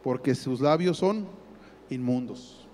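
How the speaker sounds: a hint of a stern father, low and dry; fatherly scolding. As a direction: tease him like a parent scolding a child. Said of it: "Como diciéndole".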